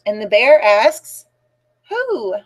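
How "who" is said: high, swooping "who"; a drawn-out storybook who, pitched up; questioning refrain. A narrator's reading.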